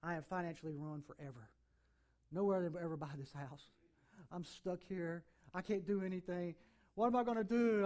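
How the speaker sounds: retold moment of despair; woe is me. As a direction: replay the panic of ruin, mostly low and heavy. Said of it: "I'm looking at that stuff going".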